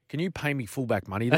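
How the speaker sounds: laughing through the punchline of a retold cheeky request. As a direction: deliver the ask while cracking up.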